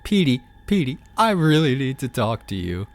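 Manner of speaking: pleading femboy. Retold or imitated. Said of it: "the femboy calls him up and is like".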